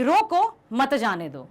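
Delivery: "रोको" set apart, then "मत जाने दो" as one slow phrase; slow command grouping "मत" with "जाने दो"; stop, don't let go. Shown as a demonstration. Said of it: "इस वाक्य का अर्थ ये हुआ". ("रोको" अलग, "मत जाने दो" साथ में, धीरे)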